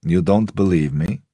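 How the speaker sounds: put-on a faint Russian accent in a challenging question; lightly voiced Russian accent, mild reproach; Russian-English accent. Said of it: "the accent forever caught somewhere between rural England and his Russian homeland".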